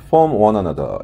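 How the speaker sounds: "form"으로 약하게 흘려 "one another"로 이어서; "form"을 살짝 넘기며 천천히; weak from. Shown as a demonstration. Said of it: "form하고 이렇게 살짝". (약한 "form" 발음)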